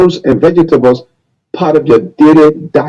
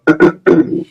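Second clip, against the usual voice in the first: Taylor throat clearing. Retold or imitated. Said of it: "Mister Taylor, President Taylor?".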